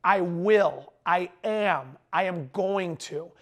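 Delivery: slow, measured declaration of intent; deliberate and committed; resolute. Acted. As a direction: say it firmly, spacing out each statement. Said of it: "What you're gonna say is".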